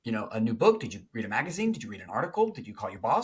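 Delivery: rapid string of eager questions, speeding up to a rush at the end; eager puppy. Retold or imitated. Pursuing partner greeting the withdrawn one, puppy-like eagerness. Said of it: "they're like a little puppy".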